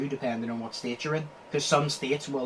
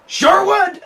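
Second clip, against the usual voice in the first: high, loud laughing Sure would; laughing squeal; 13 dB louder than usual. Pretend. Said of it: "mock cheer over a laugh".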